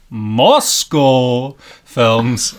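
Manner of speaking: shaky attempt at Russian-accented English. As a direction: try Moscow in a mock Russian accent. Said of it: "an attempt at a Russian accent".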